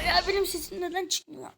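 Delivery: laughing through the question. Real, not acted. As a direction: giggle while asking it. Laughing about his broken mic.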